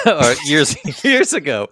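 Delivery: loud, high laughter through the words; real laugh breaking up the phrase; laughing while talking. Real, not acted. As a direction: crack up while correcting yourself. Laughing at own plot slip.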